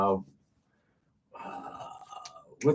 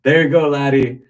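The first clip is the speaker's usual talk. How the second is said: a deliberately bad Irish bartender accent, a bit louder; 5 dB louder than usual. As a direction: ham up an Irish pub accent, knowingly poor. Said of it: "I'll do a bad Irish accent".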